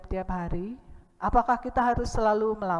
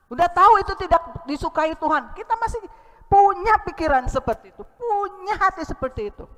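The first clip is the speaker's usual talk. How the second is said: much higher and louder, voice near tears; choked-up exhortation; tearful preaching; 8 semitones higher, 5 dB louder than usual. Real, not acted. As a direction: plead with the church, on the edge of crying. Emotional preaching, crying heard.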